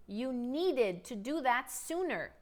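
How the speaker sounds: slow, careful repeat; deliberate teacher pacing. Shown as a demonstration. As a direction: say it again slowly. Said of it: "Let's talk about the past".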